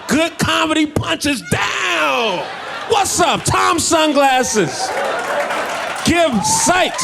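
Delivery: very high, slow hammed-up shout; high shouted catchphrase. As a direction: belt it out like a hype man. Shouted punchline tag.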